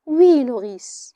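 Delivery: slow, faintly smiling yes; with a faint smile. Acted. Antigone answering her scolding nurse with a faint smile. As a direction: answer with a barely hidden smile. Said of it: "Antigone a encore un sourire imperceptible".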